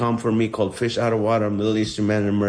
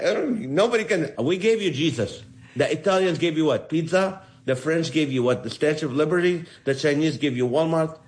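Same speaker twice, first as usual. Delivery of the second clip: higher-pitched, hammed-up offended protest; mock indignation; 6 semitones higher than usual. Comedian retorts to his friend about Jesus, mock indignant. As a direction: play the affronted local boasting, in jest.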